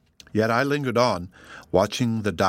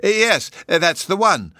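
slow, raised, a touch grudging; owning up without wanting to; reluctant admission; 9 semitones higher, 5 dB louder, slower than usual. A narrator's reading. Professor reluctantly admits the old lecture, slow and grudging. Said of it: "rather reluctantly admitted".

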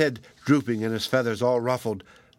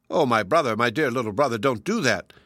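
anguished cry. Acted. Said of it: "cried the magpie".

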